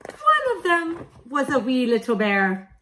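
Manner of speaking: silly wee bear voice. Acted. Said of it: "in a silly voice".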